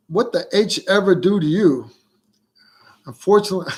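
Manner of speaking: exaggerated, badly faked Australian accent with swooping pitch; fake Australian accent. Reading Susan's comment about Yankees, hammed-up fake Australian accent. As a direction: ham up a bad Australian accent. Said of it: "never been good at a fake accent".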